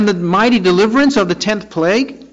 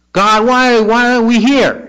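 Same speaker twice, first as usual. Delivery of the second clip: higher-pitched, mildly complaining cry to God; cry of unbelief; 4 semitones higher, 3 dB louder than usual. Acted. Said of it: "they cried out in unbelief".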